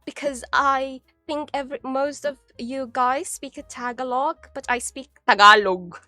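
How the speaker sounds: demure witch. Pretend. Greeting stream friends in a lightly played demure witch voice. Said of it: "I am a very demure ... witch".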